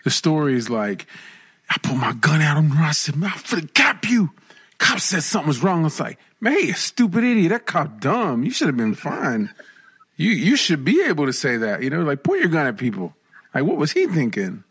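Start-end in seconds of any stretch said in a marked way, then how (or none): 1.7-4.3 voiced customer. Voicing the angry customer's story. 6.4-14.6 side with him in mock outrage. Mock-agreeing with the customer.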